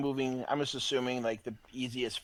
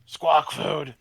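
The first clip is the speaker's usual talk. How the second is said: pigeon voice; 4 semitones higher, 9 dB louder than usual. Acted. Player voicing the pigeon.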